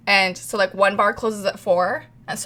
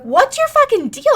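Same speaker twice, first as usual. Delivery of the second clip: high, louder mock yell; retold yelling; 4 dB louder than usual. Teller retells yelling back at her angry friend, high mock yell. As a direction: fling it back like a fight. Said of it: "screaming at me the whole way".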